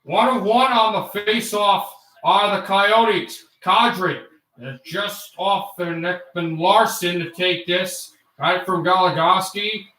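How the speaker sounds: lightly voiced veteran play-by-play man; Sam Rosen impression. Shown as a demonstration. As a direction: call it like a Rangers broadcaster, rising on shots. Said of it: "I can do Sam Rosen".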